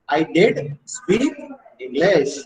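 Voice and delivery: slow, deliberate stress on "did"; "did" held as the key word, falling on "English"; emphatic DID. Shown as a demonstration. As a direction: spell out the reply slowly, leaning on "did". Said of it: "you are emphasizing that you know English".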